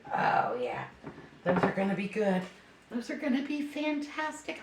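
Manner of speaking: usual speaking voice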